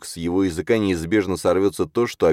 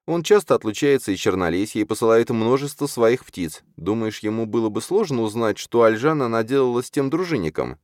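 high, urgent character voice; urgent Чарна; 7 semitones higher than usual. Acted. Чарна stops Юрген to warn about Йовар, urgent. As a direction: make the case earnestly, pitched well up.

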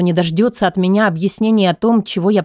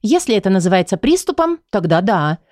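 open sarcasm. Acted. Patient mocking the psychologist's word, lightly sarcastic. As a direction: throw her words back with a sneer. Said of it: "с нескрываемым сарказмом отвечаю я".

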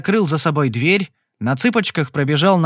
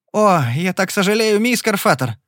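exclaiming; 6 semitones higher than usual. A narrator's reading. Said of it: "воскликнул он".

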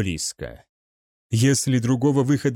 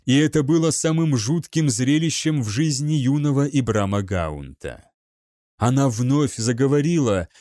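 ordinary delivery, nothing marked

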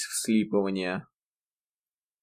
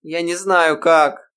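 отчаянно; 7 semitones higher, 7 dB louder, slower than usual. A narrator's reading. Ирма в отчаянии.

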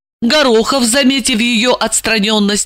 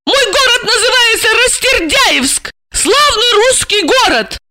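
put-on high, light voice of an eager young woman; young woman's voice. A narrator's reading. Young woman asking her handler, high and eager. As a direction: voice the heroine, pitched up high. Heroine defends her hometown.

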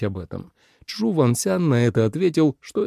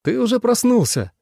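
much higher, delighted; light up with joy at seeing him; glad; 11 semitones higher than usual. A narrator's reading. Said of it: "обрадовался Ван Джун Син". (радостно, высоко)

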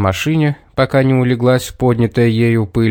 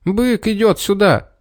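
high, frightened call; boy yelling a warning about the bull; frightened shout; 8 semitones higher than usual. A narrator's reading. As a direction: warn them in a panic. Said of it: "Петер испуганно крикнул".

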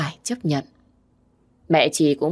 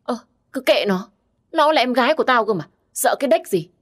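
put-on drunk slur; 8 semitones higher than usual. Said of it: "giọng lè nhè của kẻ say rượu".

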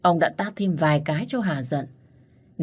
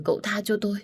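a broken, pleading plea of cậu tha cho tôi; tearful pleading; 5 semitones higher, faster than usual. Acted. Old servant begs the young master for mercy, tearful plea. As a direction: beg for mercy through tears. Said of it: "gần như khóc không ra tiếng".

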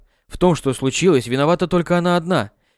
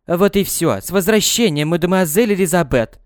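дрожащий голос; 4 semitones higher than usual. Acted. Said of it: "Голос месье Жака дрожал".

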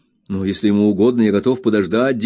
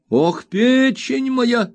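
put-on high, slow, whining old miser's wail; much higher, drawn-out spiteful whimper; spiteful whining old man; 13 semitones higher, much slower than usual. A narrator's reading. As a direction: whine it out spitefully like a crazed old junk dealer. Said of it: "воскликнул старик".

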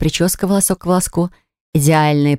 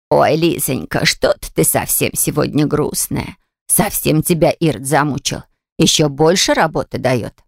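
sympathetic. Acted. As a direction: comfort her gently, slowed down. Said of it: "Сочувственно спрашивает Наталья Ивановна".

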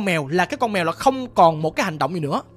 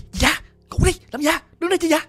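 high-pitched mock scolding; grandma scolding; 7 semitones higher, faster than usual. Grandma finds the child still up, scolding. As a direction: lightly act out a scolding grandma. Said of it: "Bà la chị vậy đó".

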